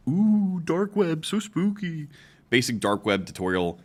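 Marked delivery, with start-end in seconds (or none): 0.1-0.6 mock spooky. Mock spooky reaction to topic. 0.6-1.2 high, hushed ghost-story tone on "dark web"; mock spooky voice. Mock spooky take of topic. 1.2-2.1 high, hushed ghost-story tone on "dark web"; mock spooky voice. Mock spooky reaction to topic.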